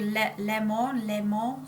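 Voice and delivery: French-sounding pronunciation of Lemon; French accent. Real, not acted. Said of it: "saying it with a French accent".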